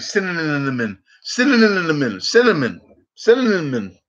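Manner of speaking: cinnamon repeated, tangled as cin-nin-nin-namon; stuttering cinnamon parody; mock stumble. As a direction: imitate people tripping over cinnamon. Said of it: "People are like".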